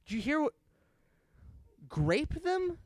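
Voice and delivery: high, puzzled voice; hesitant, can't believe what he heard; mock confused businessman; baffled exec. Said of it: "He was like".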